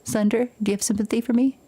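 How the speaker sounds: pitiful breathy whisper. Acted. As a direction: whisper it like a pleading invalid. Begging sympathy in whisper.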